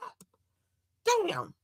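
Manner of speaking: high, slow, laughing cry; laughing exasperation. Real, not acted. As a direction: laugh through the disbelief.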